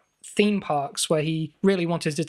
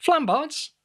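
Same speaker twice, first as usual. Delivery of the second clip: high, rising, insistent Flambards; excited; 10 semitones higher than usual. Acted. Hammers the word at listeners.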